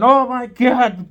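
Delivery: drawn-out, high and loud Oh my God; excited exclaim. Retold or imitated. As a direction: stretch it out in a burst of disbelief while reeling in. Friend reeling in big fish.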